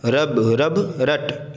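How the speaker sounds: each word stretched out slowly; slow teacher's model reading; slow deliberate reading. Shown as a demonstration. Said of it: "ज़बर ज़ेर पेश का नाम ली लेना".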